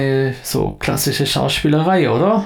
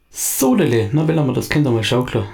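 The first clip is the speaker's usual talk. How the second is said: jovial. Acted. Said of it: "sagt Fritz in jovialer Art".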